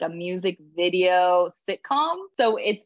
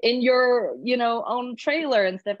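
high, laughing disbelief, pitched way up; amazed newcomer asking the star why she's talking to her, high and laughing; 7 semitones higher than usual. Retold or imitated. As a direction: gush in amazed, giggly awe. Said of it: "And it's just like".

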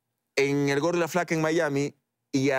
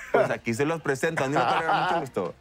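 playful norteño Mexican accent demo; northern Mexican accent. Shown as a demonstration. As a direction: introduce yourself like a northern Mexican. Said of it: "Que es hablar como norteño".

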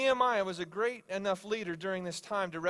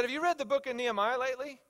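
higher-pitched, eager question; pumped; 7 semitones higher, 4 dB louder than usual. Retold or imitated. Coworker bursting into the office with a question, pumped. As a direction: fire off the question like an excited coworker. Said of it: "He was so pumped".

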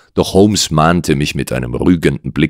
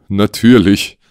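mildly raised, emphatic answer; troubled client; 5 semitones higher than usual. Acted. Client assures the detective, troubled. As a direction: answer a touch higher, in character.

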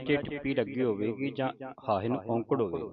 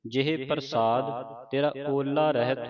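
slow, measured verse reading; scripture recitation; slower than usual. Shown as a demonstration. Teacher recites the ashtpadi for students to follow, slow recitation. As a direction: stretch the vowels and pause after each phrase.

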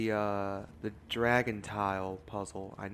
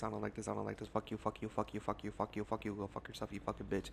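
muttered cursing; 8 dB quieter, faster than usual. Real, not acted. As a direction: mutter it under your breath. Leaving, cursing under breath.

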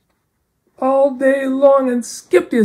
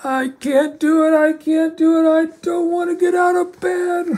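frustrated and discouraged; 4 semitones higher than usual. Acted. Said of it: "You sound so frustrated and discouraged".

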